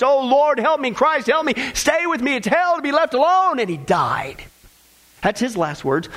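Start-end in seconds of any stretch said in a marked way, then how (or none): 0.0-3.6 desperate plea. Retold or imitated. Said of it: "he said".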